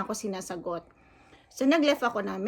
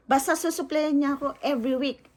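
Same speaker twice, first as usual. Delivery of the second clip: imitating owner; 4 semitones higher, 3 dB louder than usual. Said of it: "Yun ang sabi niya".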